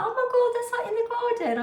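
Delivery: imitating a thrilled friend; mock excited friend. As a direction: squeal it like a delighted friend. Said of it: "she might be like".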